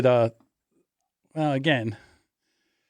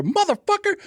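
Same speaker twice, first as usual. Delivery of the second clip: retold pained curse; 13 semitones higher than usual. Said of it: "dude says, you hear".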